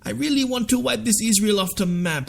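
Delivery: lightly imitated plea, pitched well up; mock friendly plea. Imagined Iranian leaders asking Russia for help, mock friendly plea. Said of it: "all they've gotta do is say".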